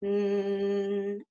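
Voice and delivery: steady held N; N sound. Shown as a demonstration. Coach demonstrating a held N sound. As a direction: hold a buzzing N. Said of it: "or you can try an N sound".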